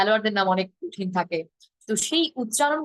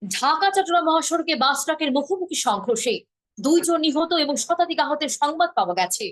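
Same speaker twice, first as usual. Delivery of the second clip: higher, dramatic, slow rising news read; Indian news style; 7 semitones higher than usual. Shown as a demonstration. Teacher demoing how Indian channels read a tragedy headline, high and lilting. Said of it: "ওরা এইভাবে বলে যে".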